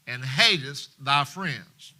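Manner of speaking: loud, slow, forceful scolding; angry rebuke. Acted. General Joab rebuking King David, loud angry scolding. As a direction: hammer each line at the king.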